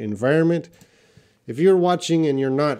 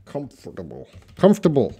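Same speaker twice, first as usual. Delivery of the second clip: British pronunciation try; faster than usual. Shown as a demonstration. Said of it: "do the British pronunciation".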